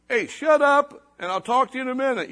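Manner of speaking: put-on loud, harsh snap at the child; rude brush-off. Teacher cutting off the little girl, loud and rude.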